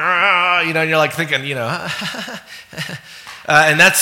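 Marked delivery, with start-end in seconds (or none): 0.0-0.7 put-on mild kid's growl. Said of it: "a little kid stomping".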